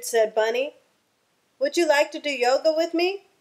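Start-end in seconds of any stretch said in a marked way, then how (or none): 1.6-3.3 higher, quick eager ask; eager invitation. Acted. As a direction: invite him in hopefully. Bunny eagerly invites Lizard.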